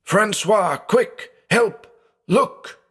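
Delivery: high, frantic cry for his brother; roaring in fear. Acted. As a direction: scream for help, half mad with fear.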